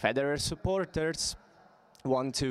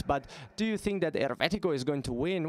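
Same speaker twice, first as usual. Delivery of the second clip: Roman dialect; 4 semitones higher, faster than usual. Retold or imitated. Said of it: "with this Roman dialect".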